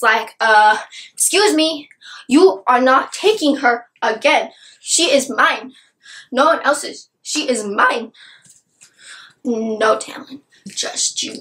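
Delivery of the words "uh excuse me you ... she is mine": mock possessive anger. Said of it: "Tamlin is all pissed".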